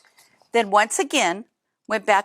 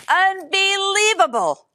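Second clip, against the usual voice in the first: rumbling bear; 10 semitones higher, 3 dB louder, slower than usual. A narrator's reading. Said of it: "rumbled the bear".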